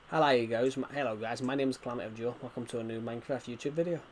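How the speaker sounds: put-on a light Irish accent on the intro; mock Irish accent. Streamer shows chat his Irish accent, lightly done. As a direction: lilt the greeting in a playful Irish accent. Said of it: "do you wanna see my Irish accent?".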